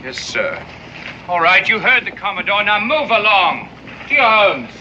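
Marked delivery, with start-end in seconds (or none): 1.3-4.7 ordering the crowd. Acted. Corporal orders the crowd away.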